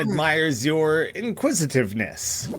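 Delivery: lightly voiced mumbling book wizard; a hint of a musing old-tome character, pitch swinging on questions. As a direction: read it as a puzzled book wizard, lightly put on. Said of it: "one of these book wizards".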